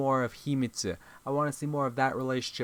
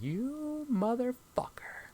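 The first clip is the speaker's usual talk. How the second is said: menacing; 3 dB quieter, slower than usual. Retold or imitated. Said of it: "I'm like".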